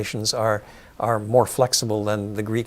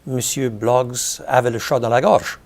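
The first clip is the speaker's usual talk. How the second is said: French pronunciation. Shown as a demonstration. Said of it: "you would translate it".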